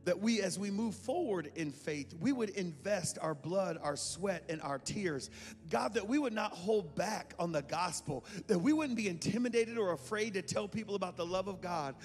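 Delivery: prayer voice building in fervour; earnest prayer. Acted. Pastor praying over the congregation, earnest and rising. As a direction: pray over them with rising conviction.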